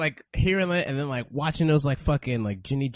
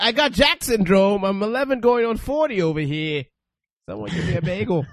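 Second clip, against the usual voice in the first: put-on Jersey accent; 4 semitones higher than usual. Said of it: "Was that your Jersey accent?".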